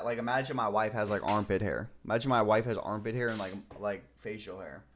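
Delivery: loudly mock the idea; loud mocking rant. Real, not acted.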